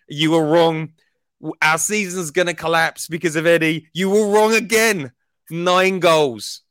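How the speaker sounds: high, loud hype-man rant; hype intro. Acted. Podcast host hyping his striker to the listeners, loud and high. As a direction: roar it like a stadium announcer crowning a hero. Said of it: "you did that amazing introduction".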